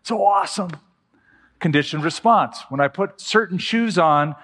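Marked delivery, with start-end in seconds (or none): 0.0-0.7 higher, overjoyed dog greeting its owner; excited dog voice. Retold or imitated. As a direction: voice the puppy's delight at the door. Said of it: "He's all excited, like".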